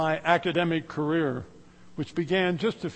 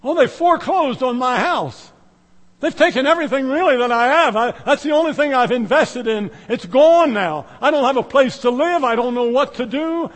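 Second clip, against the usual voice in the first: distressed homeowner; 4 semitones higher, 5 dB louder than usual. Retold or imitated. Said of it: "you hear people say".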